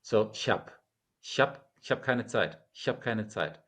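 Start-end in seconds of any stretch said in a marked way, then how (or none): 1.2-3.6 ich hab keine Zeit, run together casually; native German. Shown as a demonstration. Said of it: "That's how a German would actually say that phrase".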